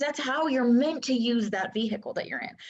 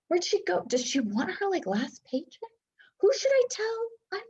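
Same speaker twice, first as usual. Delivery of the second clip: higher, bewildered coworker voices, rising to a high squeak; confused coworkers; 8 semitones higher than usual. Retold or imitated. Coworkers wondering where the employee went, bewildered and high. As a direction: play the baffled colleagues left behind.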